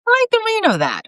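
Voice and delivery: high pleased cat voice. A narrator's reading. Constantine approves.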